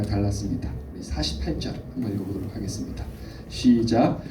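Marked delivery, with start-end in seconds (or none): none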